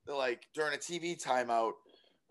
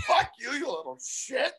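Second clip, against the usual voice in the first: mock snap at kid; 7 semitones higher than usual. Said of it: "I'm like".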